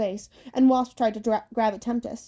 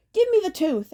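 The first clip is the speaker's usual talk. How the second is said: grabby hag; 9 semitones higher, 4 dB louder than usual. Acted. Hags fight over the tooth.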